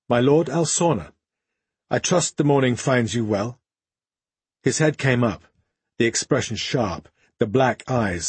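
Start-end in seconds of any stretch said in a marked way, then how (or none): 0.1-3.6 somewhat strident. Acted. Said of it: "a somewhat strident response".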